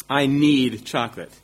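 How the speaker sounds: mock worked-up craving. Preacher confessing chocolate addiction to congregation, playfully worked up. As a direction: blurt it out, playfully overwrought. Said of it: "getting a little worked up".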